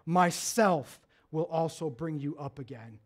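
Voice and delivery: hushed, low and solemn divine call; voice of God. Acted. God calling to sleeping Jacob, hushed and solemn. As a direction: speak softly and low, like a voice in the night. God's promise continues.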